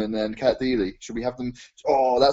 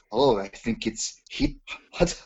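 put-on slow, cheesy French accent; 5 dB quieter than usual. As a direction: purr it like a French charmer. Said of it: "My French accent is completely not right".

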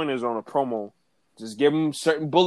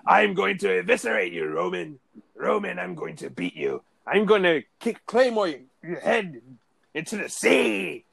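Drew McIntyre impression; 2 semitones higher than usual. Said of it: "Drew McIntyre used to kill me".

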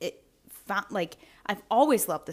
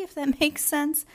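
laughing; 7 semitones higher, 3 dB louder than usual. Real, not acted. Laughs at her own pride.

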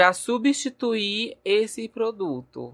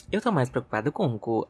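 quoting the intro clip; 4 semitones lower, much faster than usual. Retold or imitated. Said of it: "Aquele da nossa abertura".

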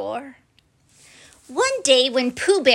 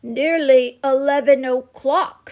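a touch of happy; 4 dB louder than usual. Acted. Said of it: "said Pooh happily".

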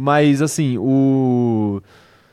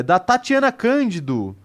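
"Cândido" left open, as if more names follow; list intonation, unfinished; 5 semitones higher, slower than usual. Real, not acted. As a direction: draw out "Tatiana Cândido" like one item in a longer list. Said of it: "falei com a entonação como se viesse mais".

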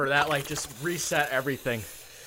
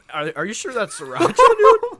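laughing; 10 semitones higher, 11 dB louder than usual. Real, not acted. Burnt by a hot jelly bean.

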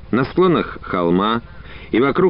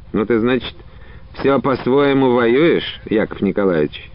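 smirking. Acted. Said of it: "спросил его с такой усмешкой".

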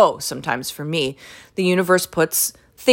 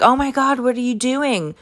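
mock gushing, higher voice; nosy Karen; 7 semitones higher than usual. Mocking the customer butting in, higher and gushing. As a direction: imitate the prying customer. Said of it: "she's like".

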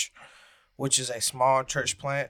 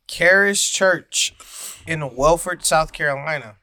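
excited plug; 3 semitones higher, 7 dB louder than usual. Real, not acted. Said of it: "shameless plug".

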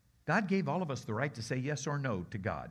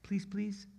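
softly pleading, repeated pleas; begging; 4 semitones higher, 3 dB quieter, slower than usual. Acted. Townspeople begging Jesus to leave, mild plea. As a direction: beg politely, each plea a little higher. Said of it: "Only they're begging".

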